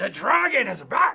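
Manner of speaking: growled voice. Describing what a country's people feel, growling.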